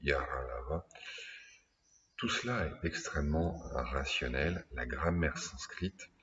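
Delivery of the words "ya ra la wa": ya, ra, la, wa spoken syllable by syllable; recited semivowels. Shown as a demonstration. Teacher reciting the Sanskrit semivowels, distinct. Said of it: "qu'on appelle les semi-voyelles".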